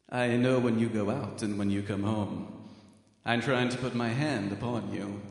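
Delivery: mock British stalker voice, lightly put on; British accent. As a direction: slip into a playful British accent as a creepy watcher. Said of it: "this person turned British in the middle".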